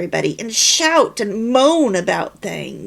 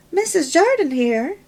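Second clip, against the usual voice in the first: "Missus Jardin here" said high and bright, masking nerves; brightly; 8 semitones higher, 4 dB louder than usual. A narrator's reading. Wife greeting her husband on the phone, forced cheer. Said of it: "said Angela brightly".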